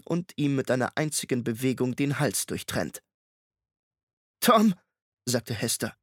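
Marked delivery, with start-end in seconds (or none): 4.4-4.7 lauter, höherer Ruf nach Tom; ruft laut. A narrator's reading. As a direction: ruf ihm dringend zu. Hester ruft Tom verzweifelt. (Hester ruft Tom warnend, lauter Ruf)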